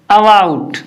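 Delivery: अबाउट opened with a short neutral "uh"; short "a" opening. Shown as a demonstration. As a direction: say अबाउट as uh-BOUT. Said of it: "इसको पढ़ते हैं अ". (अबाउट की शुरुआत छोटे "अ" से)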